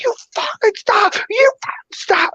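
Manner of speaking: imitated angry shout; drunk yelling back. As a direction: throw it back at him like a drunk bully. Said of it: "He's like".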